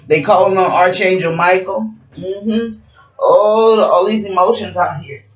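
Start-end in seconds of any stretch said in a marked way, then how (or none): none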